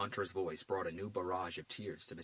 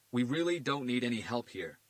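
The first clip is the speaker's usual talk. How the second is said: arrogant FBI agent, pitched higher and louder; smug agent; 4 semitones higher, 6 dB louder than usual. A narrator's reading. Agent Williams cutting off Garcia, arrogant. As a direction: brush off the local cops.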